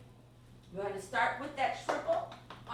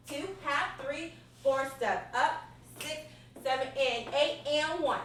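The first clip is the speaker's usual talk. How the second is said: counting dance steps. Shown as a demonstration. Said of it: "Let me count out for you".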